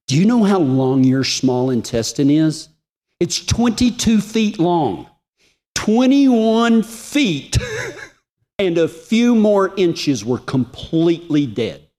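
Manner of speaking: high, emphatic astonishment; retold amazement. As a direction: hammer home the staggering figures, pitch soaring. Retells doctor's astonished news.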